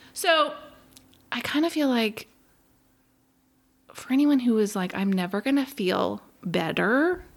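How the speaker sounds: choked up, voice catching, fighting back tears. Guest talking about a hard twelve months, holding back tears. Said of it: "I'm trying really hard not to cry".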